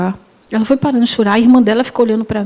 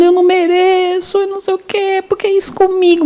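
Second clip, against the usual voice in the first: raised, anguished plea, a touch of sob; retold crying outcry; 7 semitones higher than usual. Young patient crying against the hospital wall, retold anguished wail. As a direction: voice the young patient's despairing cry. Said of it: "e chorando".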